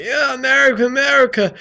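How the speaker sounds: loud, high mock cheer; brain-dead patriot. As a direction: chant it like a mindless flag-waver, hammed-up. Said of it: "brain dead who just does nothing but".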